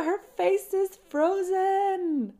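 high, slow, stiff joke voice; mock frozen-face voice. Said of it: "That was a joke".

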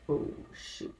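breathy hushed "oh shoot"; whispered realization. Retold or imitated. To herself on finding her passion, hushed whisper. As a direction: whisper it like a sudden private discovery.

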